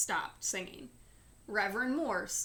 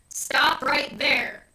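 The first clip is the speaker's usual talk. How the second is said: loud, slow threatening command; deep voice; 5 semitones higher, 12 dB louder, slower than usual. A narrator's reading. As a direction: stop him cold with a warning. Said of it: "said a deep voice".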